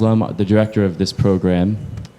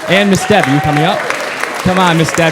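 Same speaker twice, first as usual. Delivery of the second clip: calling out to her, much higher and louder; 8 semitones higher, 4 dB louder, faster than usual. Real, not acted. Calling Miss Deb up to the stage, loud and high. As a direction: coax her up to the stage from across the room.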